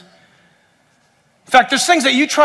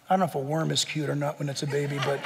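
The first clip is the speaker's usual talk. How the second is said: laughing softly; 8 semitones lower, 15 dB quieter, much faster than usual. Real, not acted. Laughing about baby animals.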